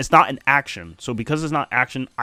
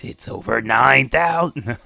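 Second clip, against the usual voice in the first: meme quote voice; 3 dB louder than usual. Acted. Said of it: "you can hear it in my voice".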